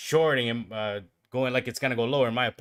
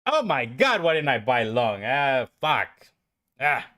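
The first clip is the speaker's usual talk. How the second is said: frustrated outburst. Real, not acted. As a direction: kick yourself for missing the buy. Missed a long trade.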